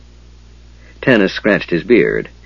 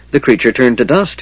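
happily; 4 semitones higher than usual. Acted. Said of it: "he said happily".

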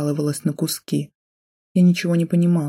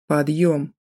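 angry. Acted. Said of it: "вырвал меня из блаженного забытия злой голос".

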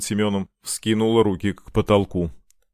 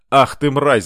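louder, higher angry outburst; furious yell; 5 semitones higher, 7 dB louder, slower than usual. A narrator's reading. Boy lunges at the captive, yelling in anger. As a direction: yell the insult in rage. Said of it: "заорал мальчик".

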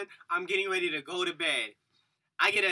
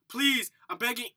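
pleading; 5 semitones higher than usual. Retold or imitated. Imitates neighbors begging.

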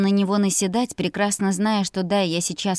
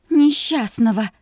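slow, louder groaning word; a mild slow moan; 4 semitones higher, 5 dB louder than usual. Acted. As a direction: moan it out despairingly. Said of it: "простонала я".

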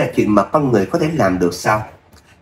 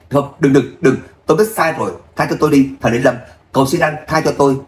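tearful begging; 2 semitones higher than usual. Acted. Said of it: "khóc lóc".

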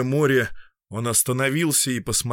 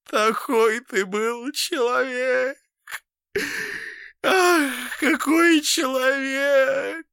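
high, slow, loud sobbing lament; tearful lament; crying; 3 dB louder, much slower than usual. A narrator's reading. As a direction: wail in grief. Crying Fityulka.

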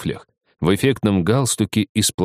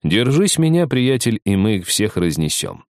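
cocky lawyer; 3 semitones higher than usual. Acted. Boastful lawyer winks at defendant.

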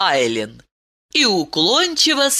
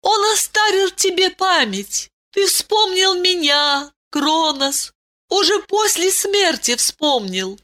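higher, reverent princess voice; grateful princess; 9 semitones higher than usual. A narrator's reading. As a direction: tell him of the blessing. Ailin explains the mercy. (благодарная принцесса, высокий голос)

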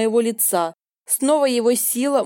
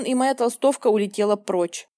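plain reading voice

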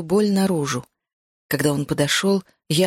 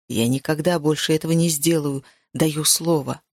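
a bit lower, earnest vow; lightly voiced man's promise; 3 semitones lower than usual. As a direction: promise it low and sincere. Hero promises heroine. (мужское обещание, чуть ниже)

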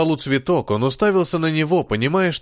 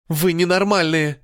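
вскрик; 4 semitones higher than usual. Acted. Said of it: "заорала Адалана".

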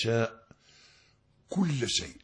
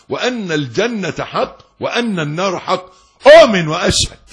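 1 mock confident reply; 6 semitones higher, 11 dB louder than usual. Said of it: "قل لي".

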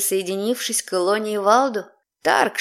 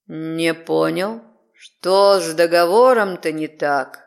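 demonic layered voice; 5 semitones lower, slower than usual. Acted. Demon speaks.

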